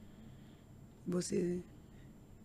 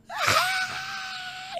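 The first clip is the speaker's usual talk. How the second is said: piercing, much higher scream of grief; anguished scream; 3 dB louder than usual. Retold or imitated. At the airport hearing her mother died, anguished scream. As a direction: let out a raw scream of shock. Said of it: "E eu comecei a gritar".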